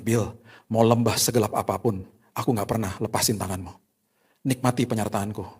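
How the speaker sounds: God promising the patient quietly, tender and soft. Acted. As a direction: reassure him quietly. God's promise voiced softly.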